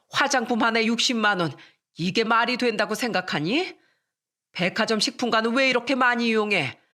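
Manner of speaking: mother-in-law scolding, voice climbing; mother-in-law's scolding growing steadily angrier; rising angry voice. Acted. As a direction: lecture her harder and harder. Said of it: "어머니의 목소리는 점점 높아지셨어요".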